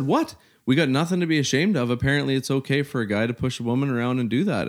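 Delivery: high, fast re-enacted outburst; indignant retort. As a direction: re-enact a defiant public argument. Retold argument, making a scene.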